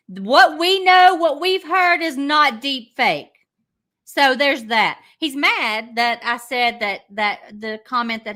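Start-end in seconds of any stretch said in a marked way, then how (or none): 0.1-3.3 louder, higher heated outburst; raised angry voice at the critic. Real, not acted. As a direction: slam it home, fired up.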